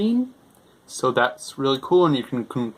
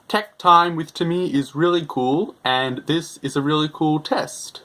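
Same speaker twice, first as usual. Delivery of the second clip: dictating. Shown as a demonstration. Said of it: "start speaking whenever you're ready".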